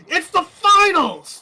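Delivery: shrill excited yell, voice cracking. Real, not acted. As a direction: scream it so the voice breaks. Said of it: "My voice cracked".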